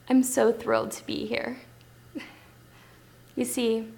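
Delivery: earnest first meeting with an agent, long thoughtful pauses; Sharon Tate. Acted. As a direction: gently play an eager newcomer, with little nervous laughs. Plays Sharon Tate auditioning for agent.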